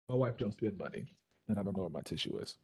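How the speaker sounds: talking with a runny nose; sniffly, needs to blow his nose. Real, not acted. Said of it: "so you can blow your nose".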